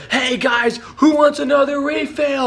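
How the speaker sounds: high, shouted call to the whole room. Retold or imitated. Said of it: "he comes out and he's like".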